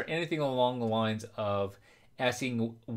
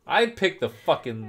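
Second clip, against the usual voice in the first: laughing; 3 semitones higher, 5 dB louder than usual. Real, not acted. Laughing at own blunder.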